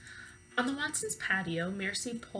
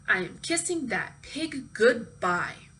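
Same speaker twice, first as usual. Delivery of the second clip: grim resolve; 5 dB louder, slower than usual. Acted. Eugenia's threat.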